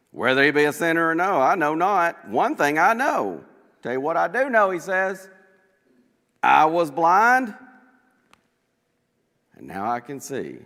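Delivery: loud and emphatic, each claim landing hard; bold loud answer. Acted. Healed blind man answering the Pharisees, loud and firm. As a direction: stand up to them with a ringing voice.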